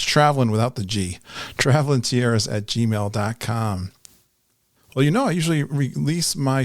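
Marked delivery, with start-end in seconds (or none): 0.0-3.9 spelled out slowly and carefully, word by word; dictating an email address slowly so listeners can write it down; slow repeat of the address. Shown as a demonstration. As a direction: say traveling tiaras at gmail dot com at half speed. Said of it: "Just contact us by emailing".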